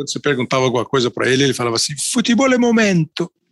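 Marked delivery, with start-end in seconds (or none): 2.1-3.3 put-on thick Italian accent on Portuguese, pitched up. Quoting a former football director's saying: imitating Nicola's strong Italian accent. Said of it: "ele tinha um sotaque italiano forte".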